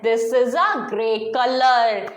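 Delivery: very slow, each word spaced out; teacher modelling a sentence; slow model sentence. Shown as a demonstration. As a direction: read it out slowly for the class. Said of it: "तेज से बोलना है".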